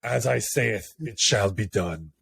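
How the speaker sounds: measured, solemn pronouncement in jest; slow, lightly voiced prophet; mock biblical decree. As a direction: play-act a scripture-quoting ruler.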